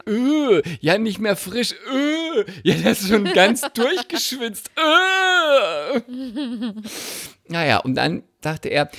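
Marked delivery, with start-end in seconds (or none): 0.1-6.0 high, squirming excuse ending in a wail; awkward stammer. Retold or imitated. Excusing the sweaty underwear, high squirming wail.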